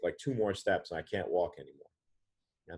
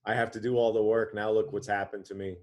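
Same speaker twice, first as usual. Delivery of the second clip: raised, complaining cry to God; a touch of a fed-up father cursing; retold angry cursing; 2 semitones higher, 5 dB louder than usual. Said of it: "he's cursing his family".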